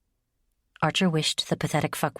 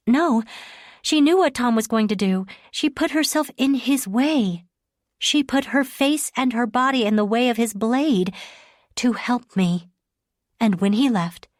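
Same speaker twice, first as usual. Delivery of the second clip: Leah's voice; 4 semitones higher than usual. Acted. Leah, insistent.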